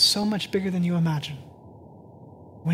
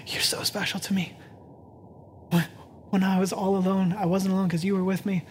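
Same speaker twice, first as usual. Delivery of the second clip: tender quote. Retold or imitated. Paul's tender words to the church.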